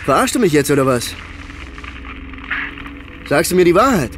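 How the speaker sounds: frightened demand to the neighbour; frantic disbelief. Acted. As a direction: push him, scared and angry. Disbelief on phone about fire.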